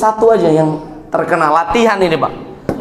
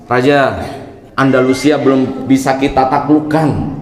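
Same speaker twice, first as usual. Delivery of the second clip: spy's report; 5 semitones lower than usual. Acted. Spy reports to the king.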